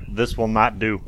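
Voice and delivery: low, quiet, dry verdict; mock solemn pronouncement; deadpan brother. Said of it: "He just goes".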